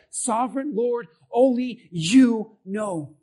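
slow, soft and reverent; humble surrender. Retold or imitated. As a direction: lay it down before God. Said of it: "Notice what he says".

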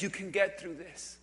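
low, soft reassurance; gently encourage, voice dropped low; voice of God. Acted. Preacher voices God encouraging the listener, soft and low. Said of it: "The voice of God says".

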